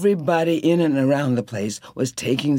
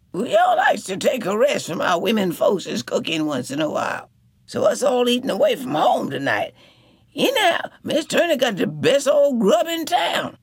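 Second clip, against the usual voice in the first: higher, cheerful man's voice; Sop praising; 10 semitones higher than usual. A narrator's reading. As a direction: flatter the cook with a grin.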